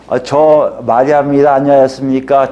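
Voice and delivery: lightly voiced humble greeting; polite young Mary greeting. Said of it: "마리아가 엘리사벳에게".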